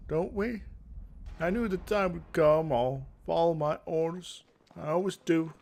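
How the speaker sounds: a lightly voiced solemn young soldier, slowed down; earnest young guard. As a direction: play a dutiful guard resigned to orders. Voicing Sevelin the guard.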